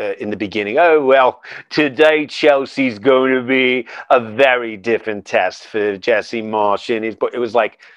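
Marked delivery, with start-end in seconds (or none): 0.8-6.9 put-on slow announcer voice, English accent, heavy sarcasm. Imitating the English announcers at the start of the match: imitating sarcastic English announcers. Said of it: "English announcers with just sarcasm dripping off their voice".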